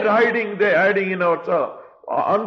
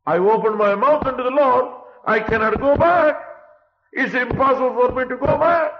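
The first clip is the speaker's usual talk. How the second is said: higher, louder, grieving father holding to his oath; king's anguished vow; 7 semitones higher, 4 dB louder than usual. Acted. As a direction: cry it out, he cannot go back. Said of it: "He said".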